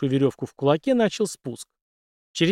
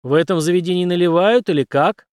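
loud brash call; loud demand for a drink; full voice; 5 semitones higher, 7 dB louder than usual. Acted. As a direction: bursts in calling out loud. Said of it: "в полный голос произнёс".

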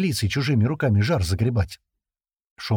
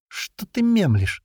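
higher, slow, exasperated demand; boiling over; 11 semitones higher, much slower than usual. A narrator's reading. Perfilov boils over as Lenka hesitates, exasperated and slow. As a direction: flare up at her dithering. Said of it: "вскипел Перфилов".

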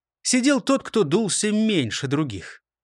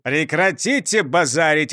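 bark; 3 dB louder than usual. Acted. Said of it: "рявкнул шеф".

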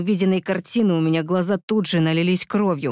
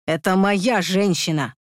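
shouted; 2 semitones higher than usual. Acted. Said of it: "кричал я".

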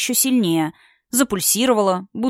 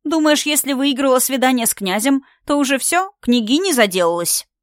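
sneering; 5 semitones higher than usual. Acted. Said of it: "фыркнула та в ответ".

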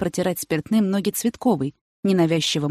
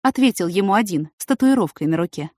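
usual speaking voice

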